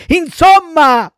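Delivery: put-on high, drawn-out childish yell; exasperated cry. A narrator's reading. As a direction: burst out loudly, fed up. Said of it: "gridò Pinocchio, dando in uno scoppio di pianto". (grido esasperato da bambino)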